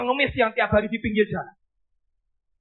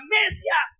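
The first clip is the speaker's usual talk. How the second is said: crying out; 7 semitones higher than usual. Acted. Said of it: "Tiba-tiba satu orang berkata".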